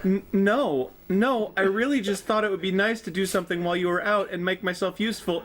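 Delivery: apprehensive stuttering. Acted. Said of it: "the apprehensive stuttering".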